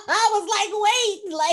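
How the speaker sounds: high laughing speech. Real, not acted. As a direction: talk through the laughter, high. Both laughing at scene.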